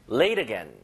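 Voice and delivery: "Late" and "again" both punched, run together; stress on both words. Shown as a demonstration. English teacher repeats for learners, "Late again" stressed on both words. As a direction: give "Late" and "again" each a beat. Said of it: "요렇게요".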